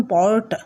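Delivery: পর্টার with both Rs fully sounded; hard R. Shown as a demonstration. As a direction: roll out each R in পর্টার. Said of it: "আমি যেমন র বলছি ঠিকই".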